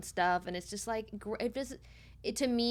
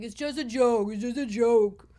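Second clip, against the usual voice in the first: dismissive; 3 semitones higher, 9 dB louder than usual. Retold or imitated. Husband's retold dismissive reply.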